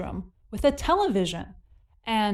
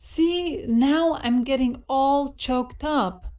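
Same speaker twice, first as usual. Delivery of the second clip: slow demo line; slower than usual. Shown as a demonstration. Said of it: "Let's hear how that sounds".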